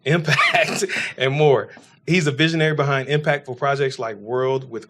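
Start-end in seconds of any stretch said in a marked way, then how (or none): 0.0-1.7 said through a laugh. Real, not acted. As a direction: let a laugh break in. Laughs while listing networks.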